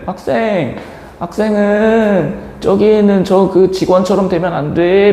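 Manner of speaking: grandmother cautioning. Retold or imitated. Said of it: "할머니가 뭐라 하시냐면은".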